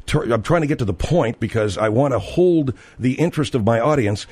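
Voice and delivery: insistent, point-by-point self-defence; emphatic. Acted. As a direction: keep stressing that it is emphasis, not emotion. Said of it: "I'm being emphatic".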